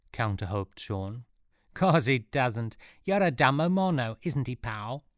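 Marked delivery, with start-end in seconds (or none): 1.7-5.0 louder, higher, laughing jeer; mocking laugh. A narrator's reading. A touch of laughing mockery. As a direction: Elf taunting Sean in front of Powell, laughing jeer. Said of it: "laughed Elf".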